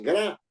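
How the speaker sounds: single out gra as the strong syllable; stressed syllable alone. Shown as a demonstration. Teacher isolating the strong syllable, gra held up. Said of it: "la mayor fuerza de voz".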